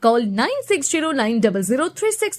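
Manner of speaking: quick advert number readout; hard sell ad. Acted. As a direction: rattle off the numbers fast. Address and phone numbers in ad. (দ্রুত বিজ্ঞাপনী নম্বর পাঠ)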